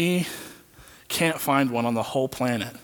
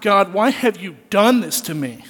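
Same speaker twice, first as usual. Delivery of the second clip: mock anguished cry; 5 semitones higher, 6 dB louder than usual. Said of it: "he screams out".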